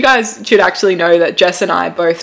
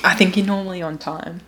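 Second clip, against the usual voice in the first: put-on Australian accent; 8 dB quieter than usual. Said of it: "the most Australian accent I've ever heard".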